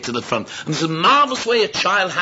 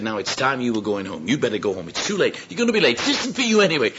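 bossy send-off; 2 semitones lower than usual. Acted. Disciples sending children home, increasingly insistent. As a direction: shoo them off, pitch climbing with each line.

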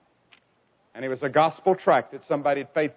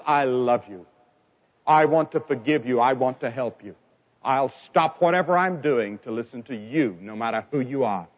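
low, gentle voice of comfort; tender reassurance; 6 semitones lower than usual. Retold or imitated. Preacher speaks as Jesus to a sinner, tenderly reassuring.

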